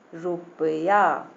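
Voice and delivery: slow, syllable-by-syllable रुपया; drawn-out word reading. Shown as a demonstration. Teacher reads example to children, drawn out. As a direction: stretch out each part of रुपया.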